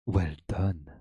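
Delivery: put-on low French-accented praise. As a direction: say it like a French chef. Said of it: "give it a French accent".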